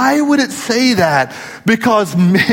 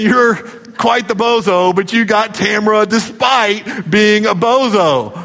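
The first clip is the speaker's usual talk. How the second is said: teasing dig. Retold or imitated. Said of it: "they're really saying".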